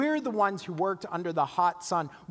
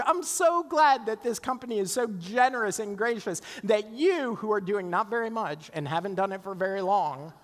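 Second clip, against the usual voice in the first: mock cheerful sarcasm; 3 semitones higher than usual. Mock congratulating lazy coworker.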